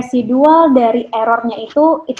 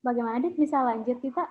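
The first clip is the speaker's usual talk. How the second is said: much softer, faint off mic; barely audible; 12 dB quieter, faster than usual. Real, not acted. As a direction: speak faintly, as if far away. Sound check, mic too quiet.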